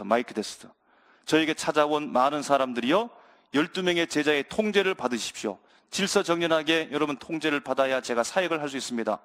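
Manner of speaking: a hint of an official announcement, low-pitched; lightly acted, measured PA-style address; mock announcer. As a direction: play someone testing a microphone before addressing a crowd. Pretend mic check and crowd announcement.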